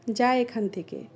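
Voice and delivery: standard Bengali pronunciation. Shown as a demonstration. Telling someone to leave, standard Bengali. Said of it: "এটাকে আমরা বলি".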